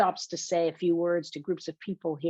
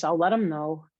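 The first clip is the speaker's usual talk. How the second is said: mildly dismissive; disdainful; 3 dB louder than usual. Acted. Roommate promising to pass on a message, disdainful. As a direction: brush the caller off with a touch of disdain. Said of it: "says the disdainful voice".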